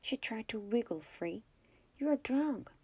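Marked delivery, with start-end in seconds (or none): 2.0-2.7 a loud, higher yell. A narrator's reading. Catherine yells at the drunk sheriff, loud. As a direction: throw the accusation at him. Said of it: "she yelled".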